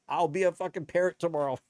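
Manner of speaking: quick, lightly squawked parrot voice; a half-hearted stab at a parrot; bad parrot impersonation. Ranting about identity, tossing off a lightly voiced parrot. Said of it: "That was a bad parrot impersonation".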